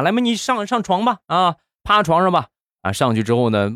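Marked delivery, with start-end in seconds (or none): 0.0-2.5 put-on high-pitched old doctor; 老大夫. Voicing the old doctor's lines. (老大夫高声招呼病人)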